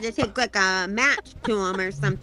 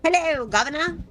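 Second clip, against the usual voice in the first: mock posh British hello; playful fake British accent; 4 semitones higher than usual. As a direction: lay on a fancy British accent. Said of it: "I sound super British".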